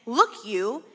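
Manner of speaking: a hint of a rude, aggressive jab at the listener; mock aggressive look you. Son snapping at his father, lightly voiced aggression. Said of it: "a very aggressive form".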